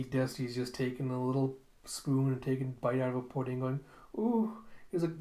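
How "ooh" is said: much higher pleased coo; mock delight; delighted ooh. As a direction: coo over the spoonful. Scientist tasting pudding.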